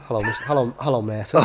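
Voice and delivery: a laughing, hammed-up Hello, Merton; laughing mock caller greeting. Retelling the caller's daily greeting, laughing.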